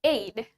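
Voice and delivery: "aid" as one syllable, rhyming with "made"; "aid" with a long "ay" and closing d; pronunciation demo. Shown as a demonstration. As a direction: say "aid" with a silent final e. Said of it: "tapi dibacanya".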